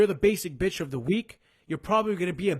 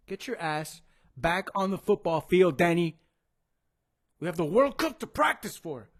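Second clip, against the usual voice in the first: raised, emphatic bossy command; mock coach's order; 3 dB louder than usual. Coach ordering Danny back to World Cup practice, mock bossy shouting. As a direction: order a player back with force.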